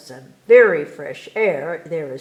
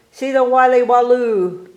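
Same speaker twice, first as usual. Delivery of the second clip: barker announcing; 4 semitones higher, 7 dB louder than usual. Acted. Barker presents a circus act.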